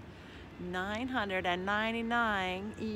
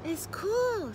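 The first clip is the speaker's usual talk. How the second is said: high little frog voice; pleased young frog; 10 semitones higher than usual. A narrator's reading. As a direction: exclaim high as a frog in fresh water. Young frog lands in pond.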